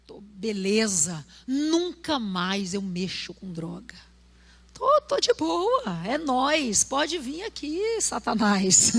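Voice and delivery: a hint of swagger, slow and teasing; lightly voiced boast daring Satan; mock bravado; cocky young convert. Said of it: "ele falou assim".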